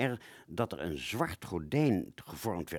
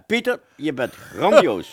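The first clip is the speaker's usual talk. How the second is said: delighted praise; 5 semitones higher, 7 dB louder than usual. Acted. Praising Pieter, excited.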